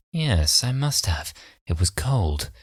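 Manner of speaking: quiet, deliberate villain with odd pauses; Baines. Retold or imitated. Possessed schoolmate explaining the sniffles, softly eerie replies. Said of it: "the way that his voice is, like, slightly different".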